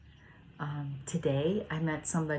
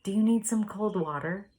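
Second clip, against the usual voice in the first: higher and louder, calling across to a neighbour; called-out offer; 5 semitones higher, 5 dB louder than usual. Retold or imitated. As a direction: shout the kind offer from his porch. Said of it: "he started yelling out".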